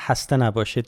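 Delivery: "hasta" with a breathed English H; soft H. Retold or imitated. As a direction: open "hasta" on a soft H, no throat rasp. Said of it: "like the soft H instead of the".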